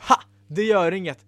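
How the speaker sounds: lightly cheerful reassurance; a touch of glee. Acted. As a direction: brush the problem off happily. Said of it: "sa Ella glatt".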